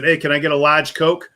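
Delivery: "large" with no r, like "lahge"; retold order, r dropped in "large"; New England "large". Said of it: "how much of an accent you have".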